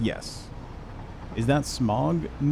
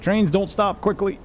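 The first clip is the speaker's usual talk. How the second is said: higher, alarmed exclamation; panicked shout; 9 semitones higher than usual. Real, not acted. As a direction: cry out as the train overshoots. Train overshooting, panicked cry.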